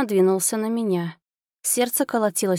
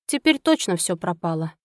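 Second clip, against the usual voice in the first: plain reading voice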